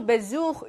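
메주흐 with a buzzing z before u; voiced z. Shown as a demonstration. Teacher repeats the example, 메주흐 with a z sound. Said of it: "이렇게 발음하는 거죠".

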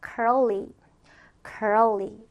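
"curly." said as an isolated word, evenly; model pronunciation. Shown as a demonstration. Teacher models the word for learners to repeat, careful pronunciation. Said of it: "발음해볼까요".

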